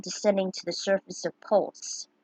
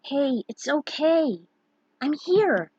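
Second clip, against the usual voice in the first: reassuring; 6 semitones higher, slower than usual. Acted. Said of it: "his assuring hand on her shoulder".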